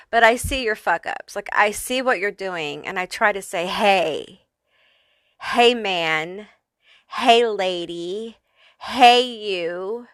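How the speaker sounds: a lightly put-on British accent, Benny Hill style; mock British accent. Pet spirits scolding the viewer in a light British accent. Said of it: "speaking in, like, a British accent almost".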